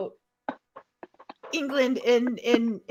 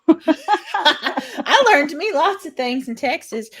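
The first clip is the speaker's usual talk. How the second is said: slow, higher, laughing reply; 5 semitones higher, slower than usual. Real, not acted. Streamer joking back to her teasing co-host about Texas, laughing. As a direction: draw it out through real laughter.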